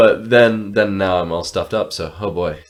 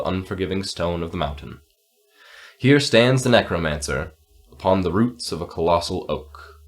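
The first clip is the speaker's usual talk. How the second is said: hushed fantasy storytelling; story narration; 3 semitones lower than usual. A narrator's reading. Narrates the scene.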